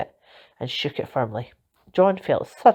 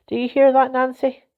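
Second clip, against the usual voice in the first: calling out high and loud; excited call; 7 semitones higher, 4 dB louder than usual. A narrator's reading. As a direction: call it across, delighted. Delighted, calls out to Nancy.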